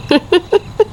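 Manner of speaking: high little cackle; short, creepy laugh from the landlady; eerie chuckle. Acted. Landlady overhears haunted house remark. (nakakakilabot na hagikhik)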